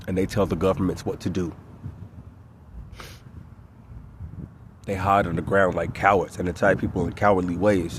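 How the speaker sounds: loud, heated ranting; angry rant. Real, not acted. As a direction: vent it out, building fury. Rising angry rant about persecution.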